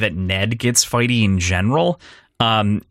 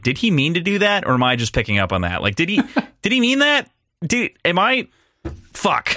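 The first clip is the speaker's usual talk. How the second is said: high, fretful self-questioning, half laughing; lightly hammed-up puzzled mutter to himself; mock bewildered inner voice; 7 semitones higher than usual. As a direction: play the baffled viewer second-guessing the film. Acting out own confused doubt.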